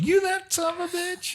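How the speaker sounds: a playful, hammed-up disbelief at an old face; amazed old client.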